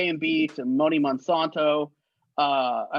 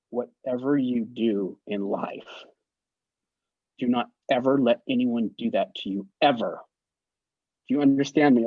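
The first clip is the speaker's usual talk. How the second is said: earnest advice; 4 semitones lower than usual. Retold or imitated. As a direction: press it on him gently but firmly. Vanity earnestly lecturing the boy.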